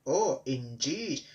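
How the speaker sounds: slow, stern, drawn-out "Oh, indeed"; severe. Acted. Controller rebukes the sulking engines, slow and stern. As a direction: weigh every word like a displeased boss. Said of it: "said the fat controller severely".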